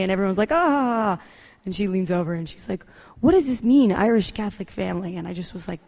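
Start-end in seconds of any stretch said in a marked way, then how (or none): 0.5-1.2 high, drawn-out mock "ah"; imitated crowd "ah". Everyone reacts to the speaker, high imitated "ah". 3.2-5.2 puzzled friend, imitated. Friend who speaks no English asks her, mock-puzzled.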